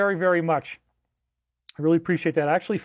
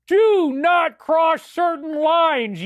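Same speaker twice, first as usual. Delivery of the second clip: shouted warning; 5 semitones higher, much slower than usual. Acted. Father yelling at son.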